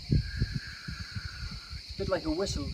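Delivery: long airy blowing like wind; wind sound. Shown as a demonstration. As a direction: blow out slowly, a breathy near-whistle. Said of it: "creating the sound of the wind".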